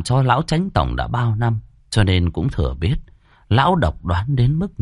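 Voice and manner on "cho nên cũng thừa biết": plain reading voice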